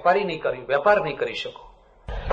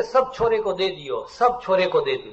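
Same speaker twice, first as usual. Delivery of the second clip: lightly imitated Marwari accent, words falling at the end; a mild Marwari old man's lament. An old Marwari man tells the speaker he gave his sons everything, in a light Marwari accent. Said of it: "Marwari".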